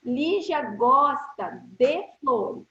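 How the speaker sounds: slow, deliberate dictation; slow motion. Shown as a demonstration. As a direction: read it out slowly for students. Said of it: "Eu tô falando bem devagar".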